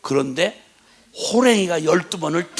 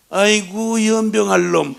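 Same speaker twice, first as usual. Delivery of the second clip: higher, louder mock scolding from mother; imitating mother cursing her son affectionately; mother's fond curse; 5 semitones higher, 8 dB louder, slower than usual. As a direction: bark it out like a fond old mum. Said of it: "기분 좋을 때 엄마가 뭐라 그러냐?".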